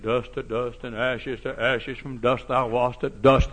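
slow, solemn funeral intonation; mock solemn burial rite; graveside preacher. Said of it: "preacher at the grave says".

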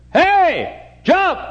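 high, loud order to a dog; shouted command. Retold or imitated. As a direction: bark it at the dog.

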